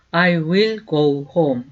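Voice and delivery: slow, clear teacher's model, each word apart; slow demo pronunciation; slow model sentence. Shown as a demonstration. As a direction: say it slowly for students to repeat. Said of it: "그래서 go를 써주게 돼요".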